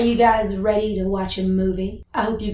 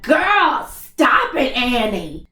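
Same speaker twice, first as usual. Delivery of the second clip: mild mock yell; 3 semitones higher, much slower than usual. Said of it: "you just wanna scream at her".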